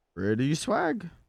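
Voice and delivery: talking like a cartoon bear. Commenting on a game, saying a line in a Yogi Bear voice. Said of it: "I said that like Yogi Bear".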